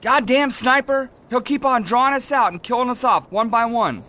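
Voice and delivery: very high, strained cursing; agitated alarm. Acted. Soldier pinned by a sniper picking off the squad, agitated. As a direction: rant in a high, rattled voice.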